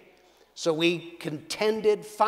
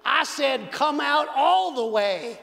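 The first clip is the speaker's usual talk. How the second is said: put-on loud, high cowboy country accent praying hard; 8 semitones higher, 5 dB louder than usual. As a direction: belt it out like a country cowboy commanding healing. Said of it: "and he said".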